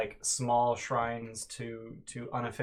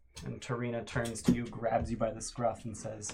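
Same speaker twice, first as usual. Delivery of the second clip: ordinary delivery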